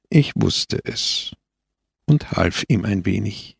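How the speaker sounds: gentle answer with a slight smile; understated, kindly reassurance; smiling reply. A narrator's reading. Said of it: "antwortete lächelnd Christus".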